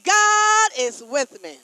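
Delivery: preacher urging the church to mean it, firm loud declaration; like you mean it. Shown as a demonstration. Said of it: "Say it like you mean it".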